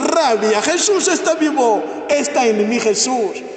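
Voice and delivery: ordinary talk, nothing marked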